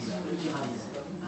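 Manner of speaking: «tout ira bien» très lent, timbre changé, comme une voix de machine; imitation voix métallique. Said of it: "là c'est métallique quand même". (imitation lente d'une voix métallique)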